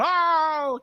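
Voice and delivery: high excited Oh!; a lightly done cheer; mock whoop running over; hype man whoop.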